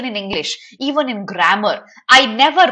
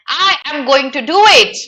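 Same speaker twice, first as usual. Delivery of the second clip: higher, louder, overly formal full form; stiff and proper; 5 semitones higher, 6 dB louder than usual. Shown as a demonstration. Teacher demoing the tone-deaf formal version. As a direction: say every word properly, no contractions. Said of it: "It would have been tone deaf if this character said".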